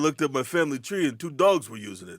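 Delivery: lightly voiced Rodney Dangerfield one-liner; a hint of the old comic's punchline delivery. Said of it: "I'm not Rodney Dangerfield".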